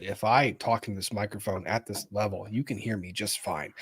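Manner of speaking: easy low-level mic talk; unraised voice. Shown as a demonstration. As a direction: talk softly into the microphone without elevating your voice. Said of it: "I don't have to elevate my voice".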